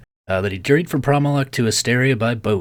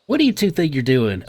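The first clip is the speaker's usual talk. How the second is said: mildly scolding nurse, raised pitch; angry nurse; 4 semitones higher than usual. Acted. Nurse scolds two men by the patient, mildly angry. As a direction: play a nurse starting to get cross. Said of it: "the nurse is getting angry".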